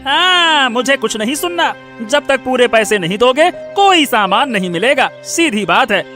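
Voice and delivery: cross, unyielding shopkeeper; angry refusal. Acted. Shopkeeper turning down a pleading customer, angry. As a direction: cut off the plea and refuse firmly. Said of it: "क्यों गुस्सा करते हो".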